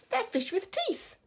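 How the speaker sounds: high, slow, panicky repetition; panicky disbelief. Acted. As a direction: stretch it out high, unable to believe it. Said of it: "she just can't believe it".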